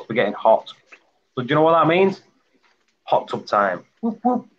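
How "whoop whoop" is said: excited whoop. Real, not acted. Hot tub cheer.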